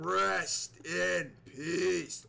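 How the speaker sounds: slow, drawn-out rest in peace; slow mock Undertaker intone; Undertaker catchphrase. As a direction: stretch each word out like the Dead Man. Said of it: "Undertaker catchphrase in commentary".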